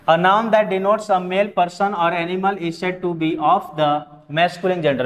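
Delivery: reads the definition out slowly, word by word; careful dictation for the class; slow definition reading. Shown as a demonstration. (धीमी गति से परिभाषा पढ़ना)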